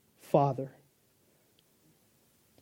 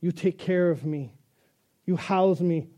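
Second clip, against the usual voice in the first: cat voice; slower than usual. Pretend. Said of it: "Cat says".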